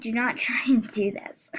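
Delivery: whispered through a laugh; giggling warning, barely voiced. Real, not acted.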